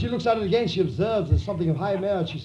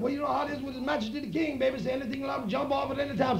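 fast and soft; quick hushed reply; 6 semitones higher, 6 dB quieter, faster than usual. Acted. Man answering his woman, fast and soft.

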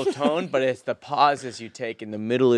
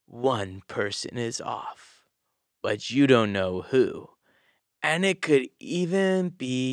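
documentary narrator; slower than usual. Shown as a demonstration. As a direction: draw them in, hushed and slow. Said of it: "just like my documentary. Here we go".

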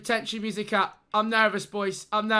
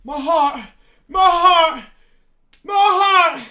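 building cries, louder and higher each time; excited cry; 5 semitones higher, 8 dB louder, slower than usual. Real, not acted. Streamer crying out to chat at the pack reveal, excited. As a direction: clutch your chest and cry out.

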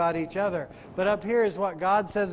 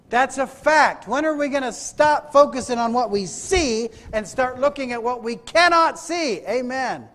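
emphatic preaching; 3 semitones higher, 5 dB louder than usual. Acted. Preacher pressing congregation on seen and unseen, emphatic preaching. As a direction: preach it higher and louder.

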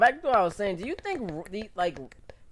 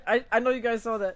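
laughing; 5 semitones higher, faster than usual. Real, not acted. Streamer embarrassed, laughing to chat.

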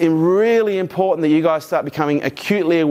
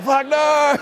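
mock groan of dread; 10 semitones higher than usual. Audience dreading early wake-up.

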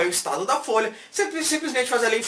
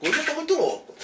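higher, buzzing delivery; hyped up; 5 semitones higher, faster than usual. Acted. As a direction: burst it out all wired. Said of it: "Hoje, hoje eu tô muito louco". (agitado e elétrico)

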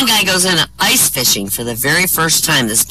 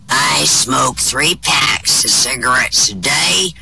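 put-on old man voice; 3 semitones lower, much slower than usual. Old-looking man answers woman.

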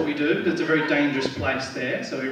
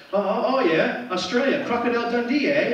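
lightly mimicked clueless fan, pitched up; mock recognition in a higher voice; mock ignorant foreigner; 6 semitones higher than usual. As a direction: imitate someone excitedly recognising Australia. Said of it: "and they say".

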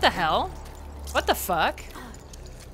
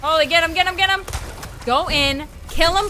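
excited urging; 4 semitones higher than usual. Real, not acted. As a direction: egg your partner on mid-fight. Urging ally during fight.

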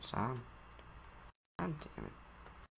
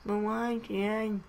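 higher, pleading little son; whiny son voice; 8 semitones higher, slower than usual. Acted. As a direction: play the hurt kid asking dad.

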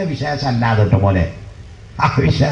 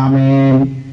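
imitated Amen response; 3 dB louder, much slower than usual. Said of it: "ബാക്കിൽ നിന്ന് പറയാം".

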